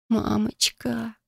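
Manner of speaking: drawn-out scared cry for mom; slow trembling call, near tears; frightened whimper. Acted. Alone in night forest, terrified.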